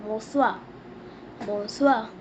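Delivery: "monsieur" as "mo-SWA"; teacher modelling "monsieur"; French pronunciation. Shown as a demonstration. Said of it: "We say sir in French".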